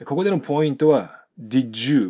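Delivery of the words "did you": "did you" blended into a "joo" sound; linked D and you. Shown as a demonstration. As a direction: turn the D of did plus you into J. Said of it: "DとUがくと十になります".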